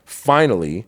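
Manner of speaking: raw, rising confession; emotional outburst. Real, not acted. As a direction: let the buried secret burst out.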